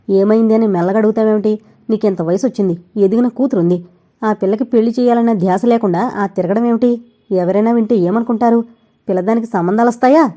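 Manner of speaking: a mother's ringing, scolding voice. Acted. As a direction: ring out, chiding her son. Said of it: "ఆవిడ కంఠస్వరం ఖంగుమంది". (ఖంగుమనే గొంతుతో)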